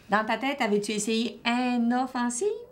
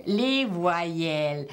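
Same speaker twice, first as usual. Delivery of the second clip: slow model; 2 semitones lower, much slower than usual. Shown as a demonstration. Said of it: "corrects student answer".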